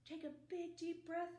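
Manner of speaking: energetic stretch leader; stretching cue. Acted. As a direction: rise up with the kids. Stretching instruction.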